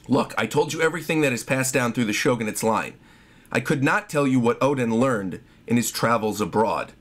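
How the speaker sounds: a lightly voiced old retainer; low solemn retainer voice; low, grave shogun voice. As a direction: drop low and solemn for the elder. Reads manga dialogue in a low voice.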